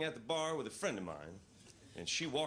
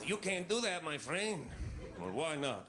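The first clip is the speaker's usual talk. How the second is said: local guy voice; 4 semitones higher than usual. Acted. Local guy explains rules.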